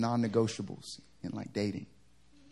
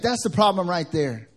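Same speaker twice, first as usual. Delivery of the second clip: louder, higher indignant retort; imitated upset pastor; 6 semitones higher, 7 dB louder than usual. Pastor scolding sisters in the back, raised mock-angry voice. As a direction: imitate him laying down the problem. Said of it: "never heard his voice get like that".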